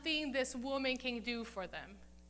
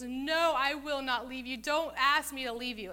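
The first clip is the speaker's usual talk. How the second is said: insistent, louder plea, acting out Ruth; clinging refusal; 2 semitones higher, 5 dB louder than usual. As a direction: insist on staying, hitting the first word hard.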